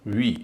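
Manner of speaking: वी held with a long "ee"; long vowel. Shown as a demonstration. Teacher showing the stressed syllable, long vowel. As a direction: say वी as a full stressed "vee". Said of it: "वी का उच्चारण दीर्घ ई होगा".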